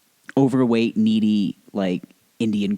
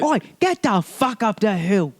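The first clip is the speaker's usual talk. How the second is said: high, slow hammed-up Cockney yell; Cockney accent; 10 semitones higher, slower than usual. Trainer sending someone uphill, exaggerated Cockney. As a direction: put on a mock Cockney. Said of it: "That's Cockney".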